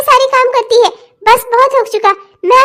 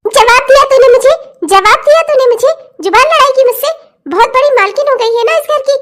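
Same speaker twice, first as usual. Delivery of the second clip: incredulous, angry challenge; outraged scolding. Acted. Mother-in-law outraged that she answered back, outraged scolding. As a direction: round on her for talking back.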